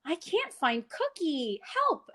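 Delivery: slow, then a high plea for help; mock helpless to child. Shown as a demonstration. Therapist playing lost for a toddler, mock helpless. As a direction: pretend you can't find it. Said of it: "I'll say".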